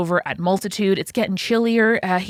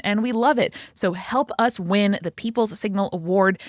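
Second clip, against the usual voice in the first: ordinary talk, nothing marked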